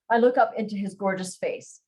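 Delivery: expressive romance audiobook reading; story narration. A narrator's reading. Nervous heroine recounting meeting her crush, animated narration. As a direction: read the flustered heroine's story with lively dialogue. Resumes reading the novel aloud.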